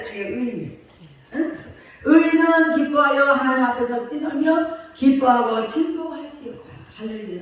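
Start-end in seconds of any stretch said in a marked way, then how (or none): 2.0-6.7 loud, emphatic psalm reading; scripture reading. Acted. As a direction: proclaim the verse to the congregation. (설교자가 회중에게 시편을 힘차게 낭독)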